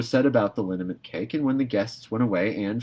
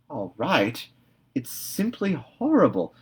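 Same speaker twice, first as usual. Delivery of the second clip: a hint of a disgusted old woman; stern Marilla; 5 semitones higher than usual. A narrator's reading. Marilla scolding Anne over the cake, lightly voiced. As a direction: scoff it back at her.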